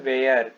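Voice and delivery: where said "ve-yar", starting with a v; pronunciation demo. Shown as a demonstration. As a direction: model where in two syllables, "ve-yar". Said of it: "इसका उच्चारण होता है".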